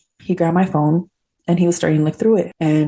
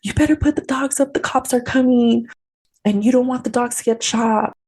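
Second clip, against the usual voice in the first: retold yell; 6 semitones higher than usual. Warning ex-husband the cops are coming, retold yell. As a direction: imitate yelling a warning at contained volume. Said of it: "I yelled at him and I".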